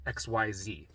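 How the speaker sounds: exaggerated health-anxiety panic; acted freak-out. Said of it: "when I would freak out".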